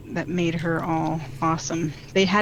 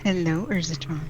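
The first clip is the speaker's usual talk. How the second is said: flirty greeting; 2 semitones lower than usual. Pretend. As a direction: purr it gently to make him melt. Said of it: "Oh, he just melted".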